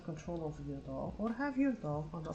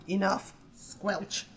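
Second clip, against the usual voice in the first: slow deliberate squelch; 2 semitones higher, 5 dB louder, much slower than usual. Retold or imitated. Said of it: "Grim just went like".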